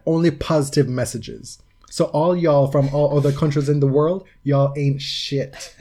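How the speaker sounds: lightly theatrical open-letter delivery; dramatic reading. Acted. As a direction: declaim the letter with mild drama. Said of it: "give you a dramatic reading".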